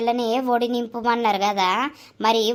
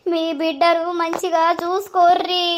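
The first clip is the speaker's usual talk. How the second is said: a touch of crying in a raised plea; tearful plea; 4 semitones higher than usual. Acted. Grandmother tearfully begging the groom's family to care for her girl. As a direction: beg them through tears. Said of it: "ఓ ఏడవకమ్మా".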